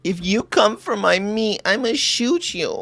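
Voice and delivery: high, whiny fake-weeping threat; mock crying. Carny threatening anyone after their meat, mock crying. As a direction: wail it like a hammed-up crybaby. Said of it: "they're always crying".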